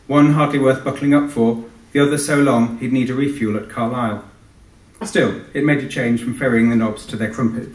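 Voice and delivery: measured reading-aloud voice for a book launch audience; story narration. A narrator's reading. Author reading his novel to an audience, measured narration. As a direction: read the opening pages to the room.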